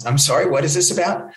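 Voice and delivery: polite, puzzled question; imitated baffled reporter. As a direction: ask it as a mildly confused reporter. Bewildered reporter answers angry caller.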